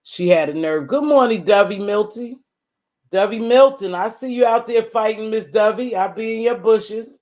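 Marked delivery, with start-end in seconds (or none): 0.9-5.9 hollering a cheeky good morning across the yard; mock sing-song greeting. Calling out to a neighbor, teasing. 6.0-7.2 higher, louder playful threat; teasing call. Pretend.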